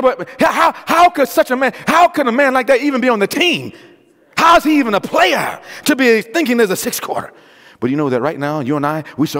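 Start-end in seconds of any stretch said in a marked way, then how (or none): 0.0-7.3 high-pitched acted disbelief; incredulous objection. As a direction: protest like a baffled critic. Acts out an incredulous critic.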